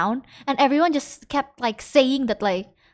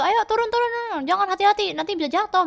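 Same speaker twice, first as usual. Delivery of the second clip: worried plea; 7 semitones higher than usual. Retold or imitated. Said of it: "Dia langsung teriak gitu kan".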